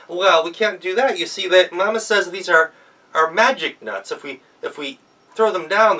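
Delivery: put-on high, loud child's voice; sweetly scheme like a child; girl tricking the wolf with a request; clever girl. Girl luring wolf into basket.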